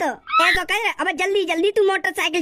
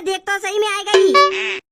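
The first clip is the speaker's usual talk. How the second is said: slow, loud arrival announcement; cheerful call; 5 dB louder, slower than usual. Acted. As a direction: announce your arrival gladly. Arriving, calling out to brother. (भाई को खुशी से पुकारना)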